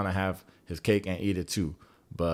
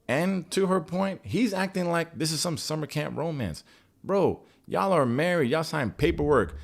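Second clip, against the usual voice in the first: fired up; 5 semitones higher than usual. Real, not acted. Heated rant about Cal.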